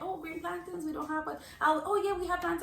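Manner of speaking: restaurant lady. Acted. Lady answering a plantain order, restaurant lady.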